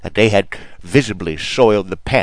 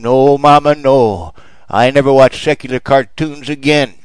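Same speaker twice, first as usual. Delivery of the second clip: put-on higher, louder, a frightened little girl; child's scream; 4 semitones higher, 4 dB louder than usual. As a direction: plead in panic with her mama. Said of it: "Susie Denkins screamed".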